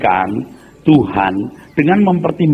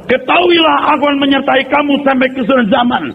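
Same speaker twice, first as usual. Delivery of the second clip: higher, solemn false prophecy; hammed-up divine voice; mock prophet voice; 10 semitones higher than usual. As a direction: proclaim it like a fake oracle. Mocking prophecy in church.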